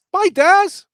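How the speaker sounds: high, loud call out goodbye. Real, not acted. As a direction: shout it across the room. Saying goodbye to absent cohost.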